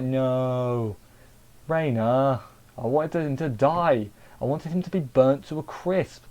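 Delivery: drawn-out, pleading complaint; mock protest. Viewer protesting to Raina that the villain survived, mock dismay. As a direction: lament it with playful exaggeration.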